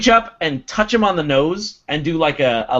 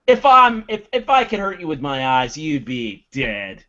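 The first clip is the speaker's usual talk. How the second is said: surly; 3 dB louder than usual. Acted. Durgan standing arms crossed, staring them down, surly threat.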